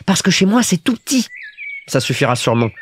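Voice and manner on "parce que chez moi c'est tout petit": put-on high little-boy voice; explaining Petit Prince. A narrator's reading. Little prince explains his tiny home to the pilot, high and childlike. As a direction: explain it simply, like a small child.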